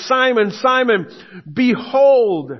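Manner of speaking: loud, pressing call of the name; emphatic call. Retold or imitated. Pastor voicing Jesus warning Peter, loud and emphatic. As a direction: demand his attention. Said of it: "He's emphasizing".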